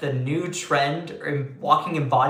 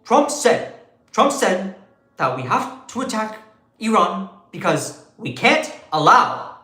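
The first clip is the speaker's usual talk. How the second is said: lightly voiced Bernie, hands up, punchy and rising on the list; a hint of Bernie ranting about war; mild Bernie Sanders rant; Bernie Sanders impression. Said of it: "this is how you do a Bernie Sanders impression".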